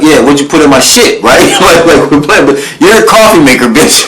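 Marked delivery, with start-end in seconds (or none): 0.0-1.2 higher-pitched imitation of an angry man; pressing, worked-up mock demand; retold heated demand. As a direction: act out his heated questioning.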